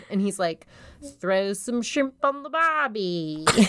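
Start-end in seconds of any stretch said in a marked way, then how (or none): 1.2-3.5 bad Australian accent. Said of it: "doesn't do an Australian accent very well".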